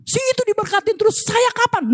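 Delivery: high-pitched mock complaint to God; whiny put-on grumble; grumbling. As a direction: imitate an envious grumbler, voice pitched well up. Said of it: "Nah, menggerutu".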